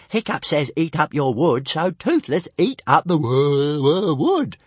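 high, loud creature voice; whining little dragon. Acted. Pet dragon pointing out its excuse, whining. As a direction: protest like a silly pet dragon.

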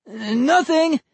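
put-on high called-out boy; shouting back. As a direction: call through the wall.

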